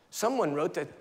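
ordinary talk

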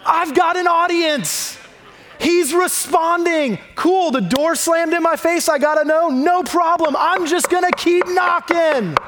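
high, triumphant, undaunted exclamation; excited. Retold or imitated. Woman thrilled that Jesus is finally talking to her, excited. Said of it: "She's excited that he's now talking to her".

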